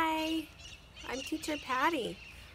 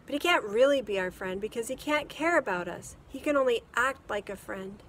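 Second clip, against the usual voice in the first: put-on boy voice; 8 dB louder than usual. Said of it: "Matt said".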